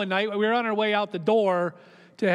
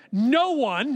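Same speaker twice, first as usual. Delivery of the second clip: mildly intense retold outburst; 4 semitones higher, 3 dB louder than usual. Doctor warning the pastor, retold with mild intensity. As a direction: lean in hard on no one. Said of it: "he said it with this intensity".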